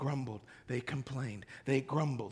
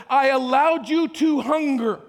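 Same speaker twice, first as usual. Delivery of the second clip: louder, higher divine voice; God speaking; 4 semitones higher, 5 dB louder than usual. Acted. God speaking to the Exodus generation, loud proclamation. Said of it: "he says".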